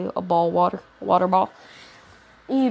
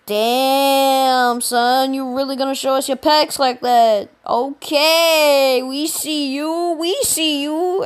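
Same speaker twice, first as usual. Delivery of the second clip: hyped classmates; 4 semitones higher, 3 dB louder, slower than usual. Retold or imitated. Classmates hyping in retold story.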